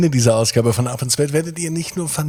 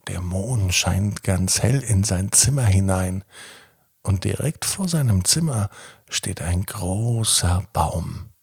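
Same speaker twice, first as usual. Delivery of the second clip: calm bedtime storytelling voice; sleep story narrator. A narrator's reading.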